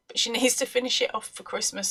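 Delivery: laughing nervously mid-sentence. Real, not acted. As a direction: giggle through the words. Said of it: "That is a nervous laugh".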